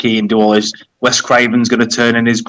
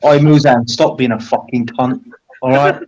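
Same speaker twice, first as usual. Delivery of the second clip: British. Real, not acted. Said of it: "the most British thing".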